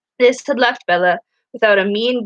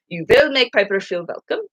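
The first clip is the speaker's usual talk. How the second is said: put-on flat German accent. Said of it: "Professor Mumblebee stated flatly".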